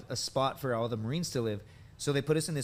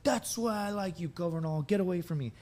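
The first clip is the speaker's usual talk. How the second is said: put-on drunk senior dismissing; 6 semitones higher than usual. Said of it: "he's like".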